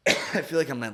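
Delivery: coughing before speaking; coughing fit. Real, not acted. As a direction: cough then talk. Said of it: "Sorry, I'm coughing".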